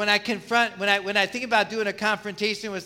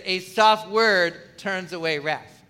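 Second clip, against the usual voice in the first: soft word; slower than usual. Shown as a demonstration. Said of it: "if we start out talking like this".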